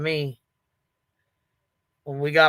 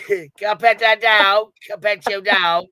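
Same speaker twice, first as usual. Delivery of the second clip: mock innocent ask; 5 semitones higher, 6 dB louder than usual. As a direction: play dumb and ask it loudly. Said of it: "walk up to Justin and say".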